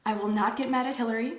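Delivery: recited like a mantra; slow affirmation. Shown as a demonstration. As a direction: lead a calm group affirmation. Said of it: "let's repeat after me".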